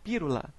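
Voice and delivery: pírula with a tapped r in place of the l. Shown as a demonstration. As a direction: say pírula, not pílula. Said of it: "Por exemplo".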